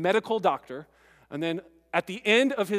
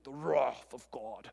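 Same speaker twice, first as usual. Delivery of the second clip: put-on old preacher voice; 5 semitones lower, 5 dB quieter, slower than usual. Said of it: "he's got this old, deep voice".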